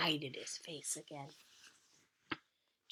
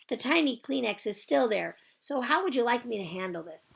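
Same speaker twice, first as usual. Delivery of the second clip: put-on high, bright child's greeting; chirpy little girl; 7 semitones higher, 7 dB louder than usual. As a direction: sing it out like a cheerful kindergartner. Junie B. character voice.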